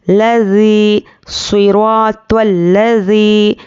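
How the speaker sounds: drawn-out الذی with a gentle, lisped z; soft zaal. Shown as a demonstration. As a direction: let the z of لذی glide without any force. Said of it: "ایک دم اس کو نرمی سے پڑھنا ہے".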